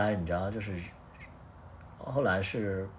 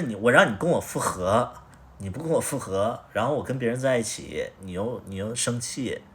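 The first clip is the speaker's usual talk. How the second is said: retold angry complaint; 3 dB louder than usual. Arguing with ex about reconciling.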